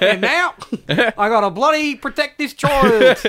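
put-on Aussie bloke; lightly hammed Australian accent; mock Australian. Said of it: "Aussie a bunch?".

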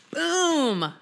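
a high, sudden "Boom!" flung out; boomed exclamation. Real, not acted. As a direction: burst out with it like throwing the paper. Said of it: "sorry I boomed that".

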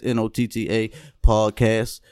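spelled out slowly. Shown as a demonstration. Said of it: "let's plug".

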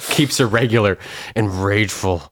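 laughing. Real, not acted. Joking about cornflakes lady.

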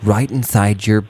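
lightly voiced preachy youth pastor; cheery churchy talk to teens; upbeat youth pastor. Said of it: "youth pastor voice".

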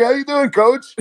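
high, giggly hello through laughter; laughing greeting. Retold or imitated. Student greeting famous coach on phone, laughing. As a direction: greet him while cracking up.

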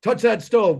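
lightly voiced parent egging the kid on; imitating a baiting dad; tempting parent. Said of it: "And then going".

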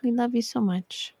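softly affectionate sign-off; loving. Real, not acted. Co-host signing off to the listeners, lovingly. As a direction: say it softly, with real love. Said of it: "That was said with such love".

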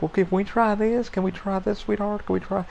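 a hint of a sugary customer service voice; call center lady. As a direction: coax like a syrupy phone agent. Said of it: "that's how she talked".

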